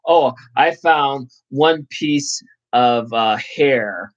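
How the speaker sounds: mock complaining passenger, slow and drawn out; whiny passenger. Driver mocking a fussy passenger, slow mock whine. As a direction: imitate a petty customer griping about a hair.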